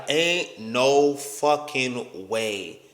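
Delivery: slow, stunned disbelief; dragged-out stunned disbelief. Retold or imitated. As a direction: drag it out like you can't believe your eyes. Reading her messages in disbelief.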